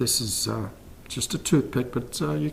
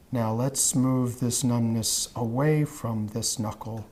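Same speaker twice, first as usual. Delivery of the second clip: hypnotic induction. Acted. Hypnotist guiding a trance.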